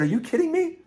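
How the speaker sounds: shot way up high in disbelief; can't believe what he's hearing; astonished. Retold or imitated. Reacting to gym woman's story.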